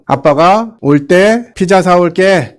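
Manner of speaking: promising father. Retold or imitated. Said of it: "막 이러면".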